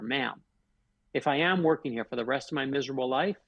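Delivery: retold calm, measured reply; calm comeback. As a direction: answer the irate customer evenly, unruffled. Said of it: "And I calmly said to her".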